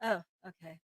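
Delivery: ordinary talk, nothing marked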